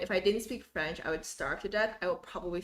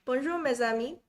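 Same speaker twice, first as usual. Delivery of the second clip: cheerful French greeting with a learner's accent; French spoken with an English speaker's accent; 3 semitones higher, 5 dB louder than usual. Shown as a demonstration. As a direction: greet them in your best French accent. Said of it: "how's my French accent".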